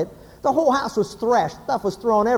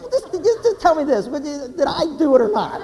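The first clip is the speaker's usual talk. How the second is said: anxious pleading; 2 semitones higher than usual. Acted. Husband pleads with upset wife.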